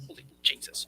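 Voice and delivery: a stunned, voiceless whisper; awed whisper. Retold or imitated. Host recalling the ball clearing the fence, awed whisper. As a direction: breathe it out in a hushed whisper.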